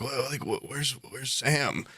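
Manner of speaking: soft, slow, halting bewilderment; wildly confused. Retold or imitated. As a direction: imitate a baffled friend groping for words. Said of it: "wildly confused at first".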